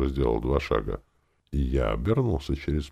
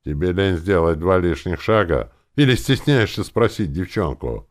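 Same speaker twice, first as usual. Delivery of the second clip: disgruntled grumbling; 5 semitones higher, 7 dB louder than usual. A narrator's reading. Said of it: "недовольно ворча".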